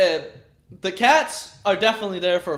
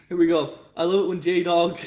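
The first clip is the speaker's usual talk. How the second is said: ordinary talk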